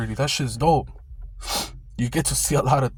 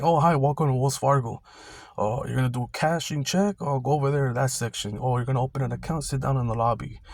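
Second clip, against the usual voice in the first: bank greeter. Retold or imitated.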